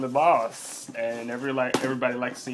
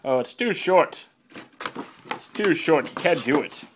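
higher mock whining; put-on complaint voice; mock complainers; 4 semitones higher than usual. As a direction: imitate people grumbling about a product. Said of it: "People have been complaining".

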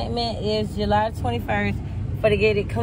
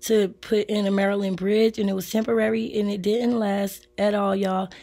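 hoarse and apologetic, quieter than usual; hoarse from laryngitis; 3 dB quieter than usual. Real, not acted. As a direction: talk through a raw, hoarse throat. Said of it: "my bad if I sound bad".

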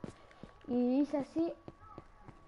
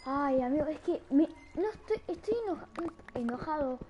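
mock anger; 4 semitones higher than usual. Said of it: "estoy enojado".

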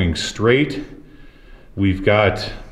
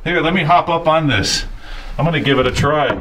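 excited; 6 semitones higher than usual. Real, not acted. Climbing the tall commode, amazed.

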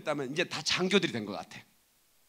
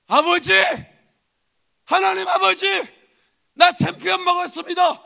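high, loud jubilant call to a father; acted champion bursting with joy; triumphant shout to God; 12 semitones higher, 13 dB louder than usual. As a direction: holler the victory up to heaven. Believer reporting victory to God.

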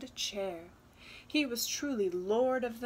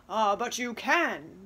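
hissed; 6 dB louder than usual. Acted. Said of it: "the father hissed".

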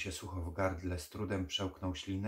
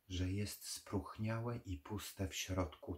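plain reading voice

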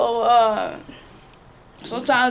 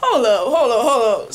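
slow, drawn-out hold up, louder and laughing through it; 4 semitones higher, 5 dB louder, slower than usual. Retold or imitated. Retelling how she stopped a pushy person, laughing and louder. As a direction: put on the brakes with a laugh. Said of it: "I'm like".

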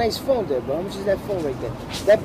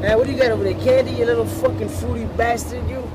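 mock angry rant; 2 semitones higher than usual. Acted harassment of stranger, yelling.

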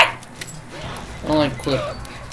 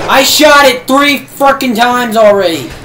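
exasperated yell; 3 semitones higher, 5 dB louder than usual. Real, not acted. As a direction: drag it out in outrage. Clicker survives shots.

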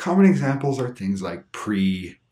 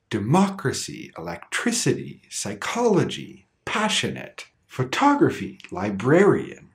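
"Democracy" on MOC, "electricity" TRIC, "psychology" CHOL, "passionate" PASS, "photography" TOG, "librarian" BRAR; stress before the ending. Shown as a demonstration. Teacher listing examples, "Democracy" to "librarian" each stressed two syllables before the end. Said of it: "have the stress two syllables before".

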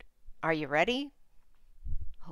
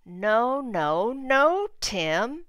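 exasperated mom; 3 semitones higher, 6 dB louder, much slower than usual. Acted. Mom scolds Tim in story.

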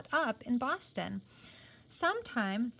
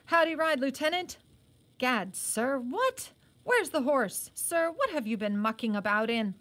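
blustering surprise; 4 semitones higher, 4 dB louder than usual. Acted. Colonel surprised at muddy lieutenant.

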